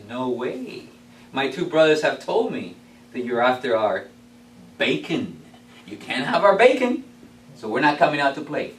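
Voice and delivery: low, steady refusal; confident third pig says no; calm brick pig. Acted. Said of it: "Third pig answers".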